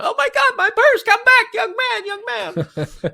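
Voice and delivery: very high mock cry for help; robbed old woman. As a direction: shriek like a panicking old lady, hammed-up.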